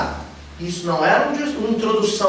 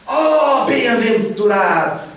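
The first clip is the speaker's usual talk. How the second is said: "Ó bem-aventurado" slow, louder and higher; exclaiming; 5 semitones higher, 5 dB louder, slower than usual. Shown as a demonstration. Teacher exclaims the blessing for students, slow and louder. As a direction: proclaim "Ó bem-aventurado" like a marvel. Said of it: "você tá exclamando".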